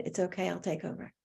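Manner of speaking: soft, kind offer of help; gently reassure, imitating a kind colleague; quietly understanding, lightly acted; kindly reassurance. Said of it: "Somebody actually very kindly said".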